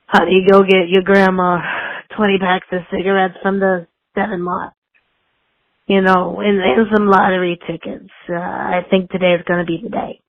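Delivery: put-on raspy old grandma voice; smoker grandma voice. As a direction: croak it like a chain-smoking grandma. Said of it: "it's just funny".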